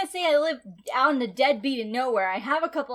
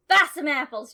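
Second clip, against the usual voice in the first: mock country accent; 2 semitones higher, 5 dB louder than usual. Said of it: "go up to my boss and be like".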